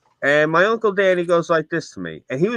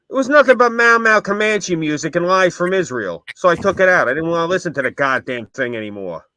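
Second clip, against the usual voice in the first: put-on a gruff old father ranting, raised a notch; 4 semitones higher, 5 dB louder than usual. A father explaining to his son why he tore out the van radio, in a gruff ranting voice. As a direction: grumble it like a fed-up old-school dad. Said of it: "He goes".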